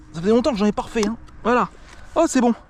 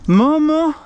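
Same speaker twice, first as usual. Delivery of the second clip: excited cry; 8 semitones higher, 6 dB louder than usual. Real, not acted. Overwhelmed by the catch.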